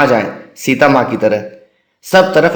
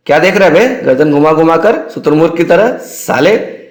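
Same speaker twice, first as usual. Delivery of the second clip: angry senior; 3 semitones higher than usual. Retold or imitated. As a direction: tear into the junior. Senior scolds Yadav in mess.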